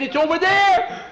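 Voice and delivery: very high, loud frightened yell; high shrieking alarm; terrified scream. Acted. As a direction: scream and point at it. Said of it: "Skeeter let out a terrible scream".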